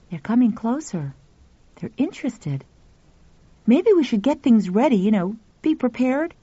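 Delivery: put-on boy voice. Pal speaks.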